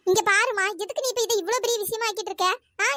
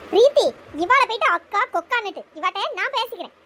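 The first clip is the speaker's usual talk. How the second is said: raised, heated voice cutting in; louder, angry interruption; angry retort; 6 dB louder than usual. Acted. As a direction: snap back hard at the sister-in-law. Heated family quarrel over phone.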